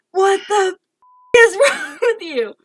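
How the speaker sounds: high, incredulous mock yell with a laugh; retold yelling. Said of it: "I'm yelling at him".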